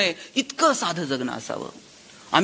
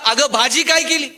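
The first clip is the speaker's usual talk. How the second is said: calling from kitchen door; 5 semitones higher, 5 dB louder than usual. Retold or imitated. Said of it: "किचनच्या दारात गेला".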